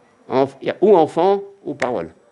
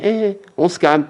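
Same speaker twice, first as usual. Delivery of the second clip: calming voice; 8 semitones higher, 4 dB louder, slower than usual. Acted. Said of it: "Ils auraient dit".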